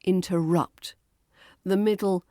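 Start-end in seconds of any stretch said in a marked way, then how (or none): 0.0-0.9 "interrupt" with the weight on rupt; last-syllable stress. Shown as a demonstration. Teacher demonstrates "interrupt", stress on the last syllable. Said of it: "The stress is on the last syllable".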